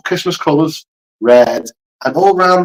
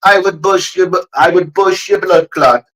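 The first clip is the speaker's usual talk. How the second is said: Jamaican accent. Shown as a demonstration. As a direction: copy the Jamaican threat deliberately. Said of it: "do the Jamaican accent".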